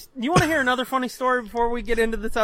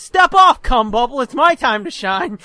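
cocky put-down; 2 semitones higher, 7 dB louder than usual. Retold or imitated. Son pushing brother aside, loud cocky put-down. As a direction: shove him aside with mock bravado. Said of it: "I went".

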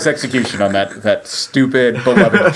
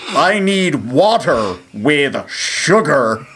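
slow FBI agent voice; much slower than usual. Pretend. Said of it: "Buzz Cagney could just be like".

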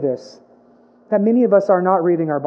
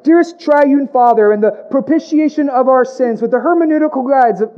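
mock theological prayer; 3 semitones higher than usual. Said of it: "we pray systematic theologies".

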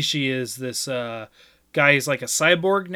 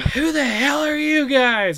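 quoting the lady character; 12 semitones higher, 5 dB louder, slower than usual. Retold or imitated. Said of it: "she's like".

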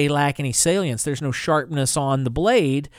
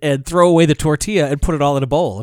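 brisk doctor's orders, a touch louder; quoting the doctor; 5 dB louder than usual. Retold or imitated. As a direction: rattle off advice like a doctor. Quoting his doctor's advice.

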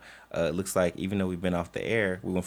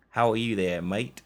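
bad Australian accent; 3 semitones higher than usual. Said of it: "Oh, that's Australian, huh? I got bad accents".

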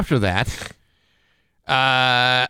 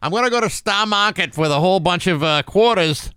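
higher-pitched mock New England talk; thick New England accent; 7 semitones higher than usual. Imitating family heading to the market, thick New England accent. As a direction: imitate a relative with dropped R's. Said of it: "really thick New England accents".

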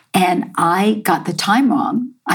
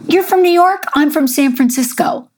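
much higher and louder, delighted surprise; imitating her excited reveal, pitched way up; excited American teacher; 8 semitones higher, 3 dB louder than usual. Teacher reveals she's American too.

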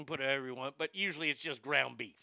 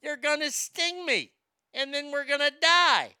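higher and louder, a lightly voiced frog refusing; panicky frog; 8 semitones higher, 7 dB louder, slower than usual. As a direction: play the frog in mock alarm, loud and high. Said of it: "And the frog said".

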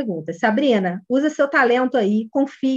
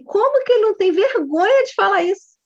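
incredulous, higher-pitched inner outcry; indignant thought; 8 semitones higher than usual. Retold or imitated. Coach voices her shock at what a father said, indignant. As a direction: think it aloud in scandalised disbelief. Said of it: "que tu pensa assim".

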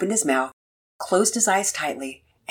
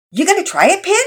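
encouraging; 13 semitones higher, 7 dB louder, faster than usual. A narrator's reading. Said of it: "Pearson's voice sounded encouraging".

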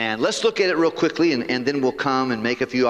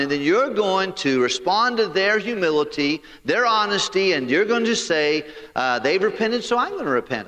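Jonah complaining; 4 semitones higher than usual. Acted. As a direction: voice Jonah protesting to God, half-acted. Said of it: "So he said".

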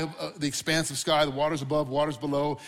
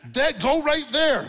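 higher, louder, slow and laughing; calling to the dog; 10 semitones higher, 6 dB louder, slower than usual. Retold or imitated. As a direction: coax the dog over, laughing at it. Pointing dog to a spot.

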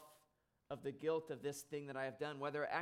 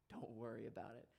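soft, quiet "Don't worry about it" said lower and hushed; gentle reassurance; 4 semitones lower, 7 dB quieter, faster than usual. Retold or imitated. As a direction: say "Don't worry about it" softly to comfort the boy. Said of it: "As I'm about to cry".

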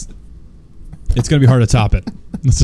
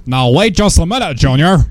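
1950s dad; 4 semitones higher than usual. Pretend. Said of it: "like a nineteen fifties dad who's about to get upset".

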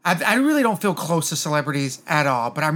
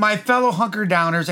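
Leslie Jordan impression; 5 semitones higher than usual. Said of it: "he would start off everyone with that".

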